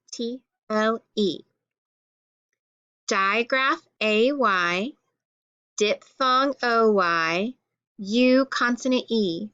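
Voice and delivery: measured classroom recitation, each letter set apart; letter-card drill. Shown as a demonstration. Teacher reading letter cards with pupils, drilled recitation. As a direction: recite the card name, then spell it out.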